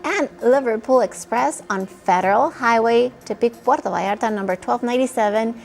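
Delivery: upbeat sponsored spot read on air; bright commercial announcer delivery. Acted. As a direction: sell the sale dates and deals to viewers. Reads sponsored store promotion.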